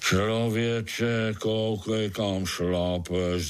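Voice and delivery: grouse at being stepped on; grumbling. Acted. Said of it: "zabručel někdo".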